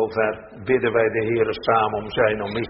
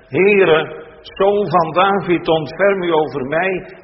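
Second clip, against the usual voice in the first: louder, higher, pleading call of a desperate mother; pleading cry; 7 semitones higher, 4 dB louder than usual. Acted. Canaanite woman begs Jesus to heal her daughter, loud pleading cry. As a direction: cry out for mercy, drawn out.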